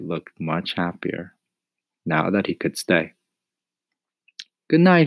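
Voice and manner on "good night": put-on high, loud boyish farewell; boy's good night. A narrator's reading. Mario says good night to the cricket, high and keen.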